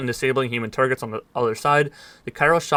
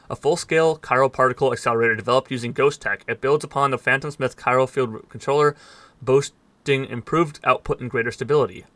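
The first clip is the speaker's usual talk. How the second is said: mouth full. Real, not acted. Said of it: "Sorry, I got something in my mouth".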